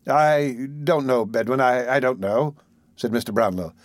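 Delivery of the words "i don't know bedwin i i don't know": put-on slow, halting old gentleman hiding his tears; flustered gentleman. Old gentleman hiding tears from Mrs Bedwin, slow and halting. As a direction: stammer it out, covering emotion.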